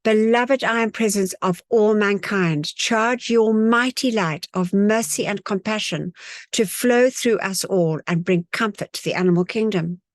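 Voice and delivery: steady recited invocation; reciting a prayer decree with the group; decree recitation. Real, not acted. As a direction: recite the decree aloud together. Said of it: "So we say together".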